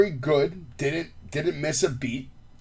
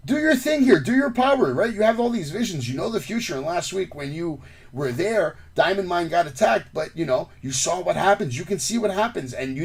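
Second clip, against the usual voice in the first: higher-pitched, lively goading; retold taunt; 5 semitones higher than usual. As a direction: goad him as in a retold wrestling promo. Retelling a wrestler's taunting challenge.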